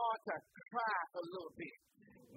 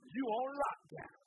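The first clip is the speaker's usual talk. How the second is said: slow stern parent; 3 semitones higher, slower than usual. Acted. Parent grounding child.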